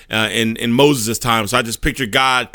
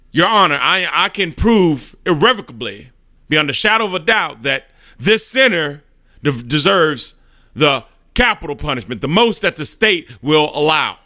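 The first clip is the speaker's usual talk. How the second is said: prosecuting Satan; 3 semitones higher than usual. Acted. Satan to God the judge, demanding punishment, higher and pushy. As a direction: press the charge like a smug prosecutor.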